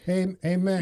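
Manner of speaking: badly attempted movie-villain accent; Whiplash. Host retrying a film quote, bad Whiplash accent. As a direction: have a clumsy go at the villain's accent. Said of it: "the Whiplash accent from Iron Man three".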